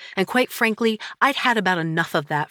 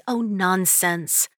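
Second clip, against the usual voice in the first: dismissive friend; 3 semitones higher, much slower than usual. Acted. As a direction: wave the thought away. Friend brushing off worry.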